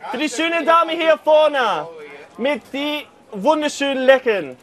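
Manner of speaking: hawking fish to the crowd; market crier. Acted. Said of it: "I should try this now".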